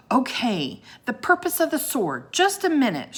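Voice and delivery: high, loud stalling call; shouted. A narrator's reading. Annie stalls the serpent, loud high shout. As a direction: shout up to buy time. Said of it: "shouted Annie".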